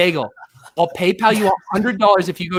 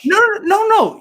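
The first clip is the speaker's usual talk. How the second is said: emphatic no; 12 semitones higher, 5 dB louder than usual. Real, not acted. Correcting a misunderstood question.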